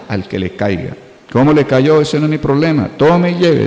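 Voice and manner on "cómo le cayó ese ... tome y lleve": dismissive retort. Retold or imitated. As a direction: toss it off as not your problem. (tono despectivo de quien no se hace cargo)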